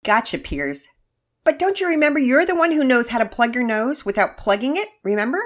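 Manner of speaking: put-on high, loud amused little girl; a giggly sister teasing; young girl voice. Narrator voices Penelope.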